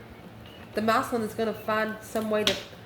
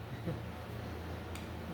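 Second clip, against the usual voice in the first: short, quiet breathy chuckle; soft little laugh to yourself; 4 semitones lower, 16 dB quieter than usual. Real, not acted. Amused at the card reading.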